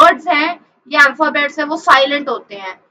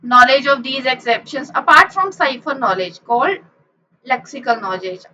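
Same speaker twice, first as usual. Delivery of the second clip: reading a definition; much slower than usual. Shown as a demonstration. Reads definition slowly.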